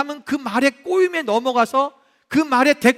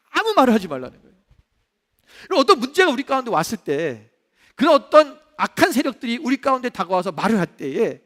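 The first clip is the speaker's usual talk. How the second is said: normal talking voice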